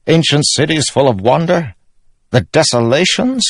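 earnest king owning his failings; self-doubting king. Acted. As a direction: insist on being heard out, voice climbing. Elhokar's confession in character.

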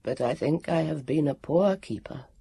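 a guardian who has failed his task; mournful warrior. Acted. Warrior after sighing.

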